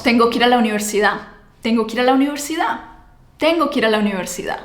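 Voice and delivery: very fast, "Tengo que ir a la universidad" slurred together; fast native form. Shown as a demonstration. Teacher showing real fast speech. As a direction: rush "Tengo que ir a la universidad" as one stream.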